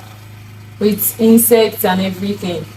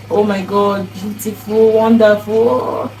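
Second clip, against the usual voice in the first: mild dreamy gushing, last word drawn out; retold happy awe; slower than usual. Recalling hopes on moving into that house, mildly happy awe. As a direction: gush lightly, stretching the final word. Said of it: "I was so happy, full of hope".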